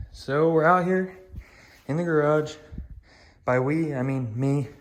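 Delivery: out of breath from the stairs; breathless and puffing between words. Real, not acted. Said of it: "Sorry, I'm out of breath".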